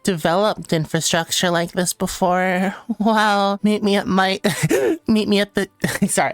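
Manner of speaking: playful flirt broken by giggles; mock flirting. Streamer flirting with a rival nation, laughing. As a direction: invite the rival over like a date.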